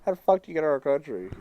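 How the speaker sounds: fast, pushy hard-guy question; pointed mock challenge. Teller pointing at the new inmate, mock tough. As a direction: jab the question at him. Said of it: "I pointed at him like this".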